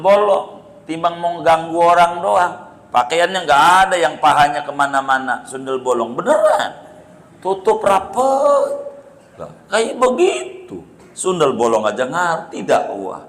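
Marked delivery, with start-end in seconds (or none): 5.5-10.8 laughing. Real, not acted. Joking about a tidy ghost.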